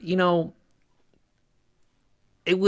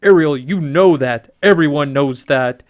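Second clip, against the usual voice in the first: King Triton; 3 semitones higher, 6 dB louder than usual. Acted. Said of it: "King Triton".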